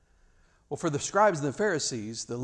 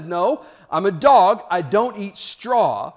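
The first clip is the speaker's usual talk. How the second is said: slow, emphatic, lightly acted refusal; stubborn fable dog; 2 semitones higher, 6 dB louder, slower than usual. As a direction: lightly play a dog digging in, word by word.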